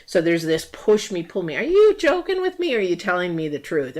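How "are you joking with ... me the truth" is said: incredulous. Retold or imitated. Partner in a tug of war asking if it's real, incredulous. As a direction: jump up in pitch, suspicious.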